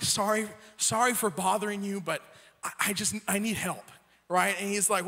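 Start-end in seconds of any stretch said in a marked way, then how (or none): 0.0-3.8 nervous and scared. Retold or imitated. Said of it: "a little nervous and scared".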